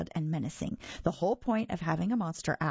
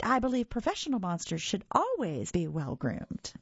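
silky voice; 4 semitones higher than usual. Acted. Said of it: "in a high, silky voice".

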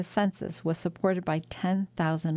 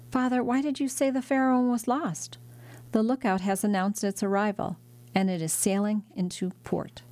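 excited exclaim; 3 semitones higher than usual. Acted.

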